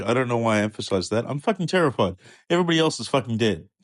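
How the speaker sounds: high, breathless panic, rushing the bad news; a terrified servant blurting it all out; panicked messenger. Messenger panicking as he tells Job of the slaughter.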